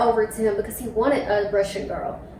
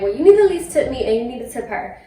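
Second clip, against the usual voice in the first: demanding tip, quoted; 2 semitones higher, 5 dB louder, faster than usual. Retold or imitated.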